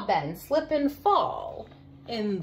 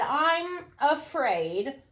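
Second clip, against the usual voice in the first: scared and small; 2 semitones higher, much slower than usual. Acted. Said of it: "I want to go home".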